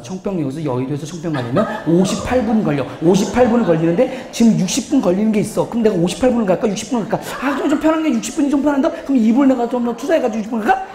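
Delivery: hint of a calculating type, speeding up; lightly acted rapid weighing of options; analytical C type deliberating. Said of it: "머릿속으로 생각하고 있어". (꼼꼼히 따지며 빠르게 계산하는 흉내)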